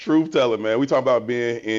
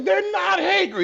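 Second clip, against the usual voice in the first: put-on very high, shrill old-lady yell. Retelling how an old lady in the crowd yelled from the back: imitating an old lady yelling. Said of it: "somebody granny yelled that shit out".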